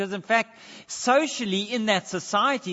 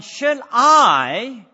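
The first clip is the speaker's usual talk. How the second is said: loud, higher challenge, leaning on "a Jew"; challenging question; 4 semitones higher, 7 dB louder, slower than usual. Retold or imitated. Preacher voicing Jesus challenging the centurion, loud and pointed. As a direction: put the question to him pointedly, as a dare. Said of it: "he's saying".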